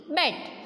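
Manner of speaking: बैट with a short, quick A vowel; बैट, vowel cut short. Shown as a demonstration. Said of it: "बिल्कुल छोटा सा सुनाई देता है".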